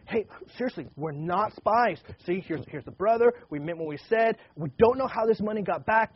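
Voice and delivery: pleading brothers. Retold or imitated. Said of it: "pleading their case".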